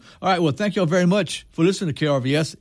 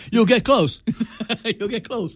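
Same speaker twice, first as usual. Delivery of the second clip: laughing; 8 semitones higher than usual. Real, not acted. Joking about the thick book.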